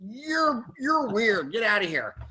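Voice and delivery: lightly voiced doorstep dismissal; imitating put-off residents. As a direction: act out a weirded-out neighbor. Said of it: "you could just tell they were like".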